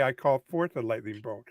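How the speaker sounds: slow, low, solemn spell call; stagey fake archaic declaiming. Shown as a demonstration. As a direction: intone it like a larp wizard. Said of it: "You have to say".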